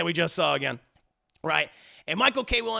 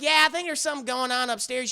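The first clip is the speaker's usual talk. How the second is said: lightly Southern wife, raised pitch; Bridget; 5 semitones higher, faster than usual. Retold or imitated. Wife points husband upstairs, raised Southern accent. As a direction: insist in a high Southern voice. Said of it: "She has a very deep Southern accent".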